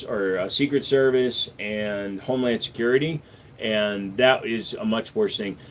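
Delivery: slow, drowsy, half-asleep words; nodding off. Real, not acted. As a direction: talk while nodding off to sleep. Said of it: "I am literally falling asleep as I'm talking".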